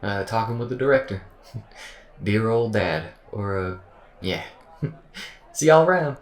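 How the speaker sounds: loud, high folksy voice, tripping over words; awkward, over-cheery goodbye full of false starts; stammering AI character. Acted. AI excuses itself to go back to work, stammering and awkward. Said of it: "programmed it to stammer".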